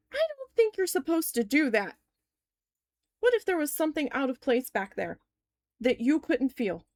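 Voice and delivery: high-pitched indignant protest, easing down; retold mad. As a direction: replay mild outrage at the doctor. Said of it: "I was so mad".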